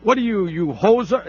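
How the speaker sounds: half-hearted Green Bay accent attempt; bad Green Bay accent. Host mimics Green Bay fans calling in, botched Green Bay accent. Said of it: "the Green Bay accent down".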